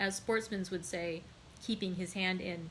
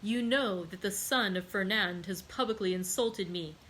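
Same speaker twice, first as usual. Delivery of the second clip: awful calmness. Acted. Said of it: "with awful calmness".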